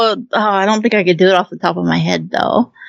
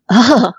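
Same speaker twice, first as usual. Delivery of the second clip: mock groan of self-disgust; disgusted "ugh"; 4 semitones higher, 3 dB louder than usual. Cringing at hearing their own robot voice, imitated groan. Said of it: "I go".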